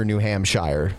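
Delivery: "New Hampshire" ending in "shyer", drawn out; mock British "New Hampshire" with a long "shire". Shown as a demonstration. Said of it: "you have to call New Hampshire".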